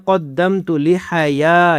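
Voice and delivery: قدمت with a thick, heavy ق, slow; heavy qaf. Shown as a demonstration. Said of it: "قاف کو موٹا کرنا ہے".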